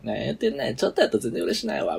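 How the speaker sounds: the same retort converted into Kansai dialect, fast at the end; the man's retort re-voiced in Kansai dialect after the standard Japanese version; redo in Kansai dialect. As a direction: retell the guy's line in Kansai dialect. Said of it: "今の関西弁変換してほしいんだけど".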